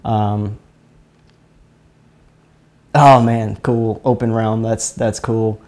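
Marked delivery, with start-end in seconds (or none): none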